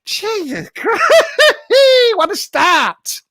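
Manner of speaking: real high-pitched giggling fit; words broken up by helpless laughter; laughing. Real, not acted. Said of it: "I don't know why I'm laughing".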